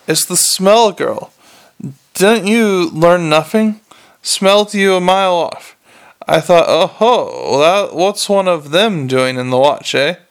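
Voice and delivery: a smug stray savouring his discovery; cocky dog, pleased with himself; streetwise talking dog. Acted. Dog explains his sniffing.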